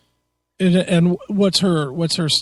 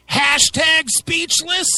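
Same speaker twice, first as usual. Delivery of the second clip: sarcastic; 9 semitones higher, slower than usual. Retold or imitated. Mocking the tweet.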